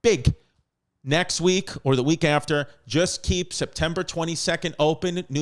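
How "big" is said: a hint of a movie star's big, huge; quick playful Julia Roberts line; Julia Roberts impression. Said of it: "Julia Roberts' voice".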